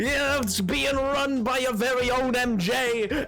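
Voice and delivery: hyped announcement. Real, not acted. Streamer announcing the vods channel to chat, hyped. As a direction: announce it big and high, stretching the words.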